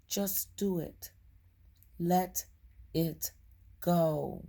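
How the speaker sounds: measured, deliberate read-aloud, slowing toward the end; card reading aloud. Acted. Reading forgiveness guidance to viewers, deliberate read-aloud. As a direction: read out the guidance, spacing the final words.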